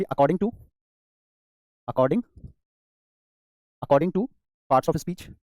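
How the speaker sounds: slow, each word spaced out for writing; slow dictation. Shown as a demonstration. Teacher dictating to the class, slow and spaced. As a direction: read it out slowly so children can write. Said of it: "teacher dictates to class".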